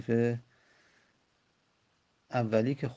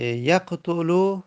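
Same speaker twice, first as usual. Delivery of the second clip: slow model word; 5 semitones higher, 5 dB louder, much slower than usual. Shown as a demonstration. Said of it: "گفتیم بر وزن یفعلو".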